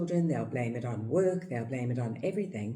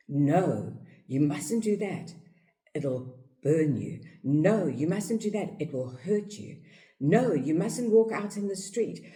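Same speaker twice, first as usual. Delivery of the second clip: louder, firm warnings; scolding parent; 3 semitones higher, 3 dB louder than usual. Retold or imitated. Parent warning the toddler off danger, loud and firm. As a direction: scold the child away from danger.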